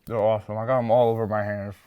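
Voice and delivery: talking through a mouthful of cookie; chewing while talking; mouth full. Real, not acted. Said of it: "I'm talking with my mouth full".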